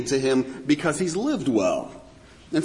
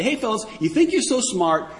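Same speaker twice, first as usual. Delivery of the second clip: biting sarcasm. Retold or imitated. The Lord taunts men who think they're smart, biting sarcasm. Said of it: "ripping into them with this biting sarcasm".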